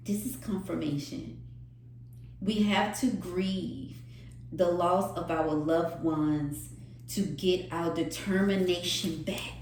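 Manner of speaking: soft, subdued voice after the emotion; hushed. Real, not acted. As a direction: speak it gently, almost drained. Quiet after the emotional peak.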